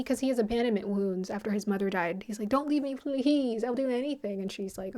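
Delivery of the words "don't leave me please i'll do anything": higher, lightly acted begging; a touch of desperate appeal; mock pleading. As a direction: retell a plea not to be left. Retold abandoned man begs partner to stay.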